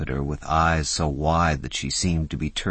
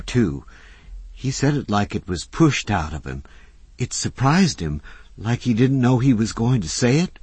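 put-on high, breathless eager young woman; a young woman blurting out her secret; young Susie, eager; 7 semitones higher, 5 dB louder than usual. A narrator's reading. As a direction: spill it out higher and louder, all in a rush.

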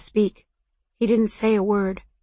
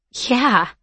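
higher-pitched yeah falling like a sigh; 4 semitones higher than usual. A narrator's reading. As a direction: let the word out on a sigh. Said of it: "I sighed".

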